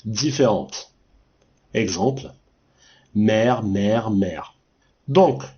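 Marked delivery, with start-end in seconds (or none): 3.1-4.5 same sound "mère" three times, identical each time; three homophones said alike. Shown as a demonstration. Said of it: "j'ai prononcé trois fois le même mot".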